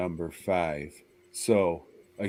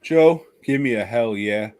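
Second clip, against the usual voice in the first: hype call; 6 dB louder than usual. Real, not acted. Hyping cohost for number three.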